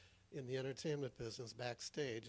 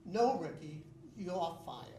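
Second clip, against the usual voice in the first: boss yelling; 8 dB louder, slower than usual. Acted. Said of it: "boss again".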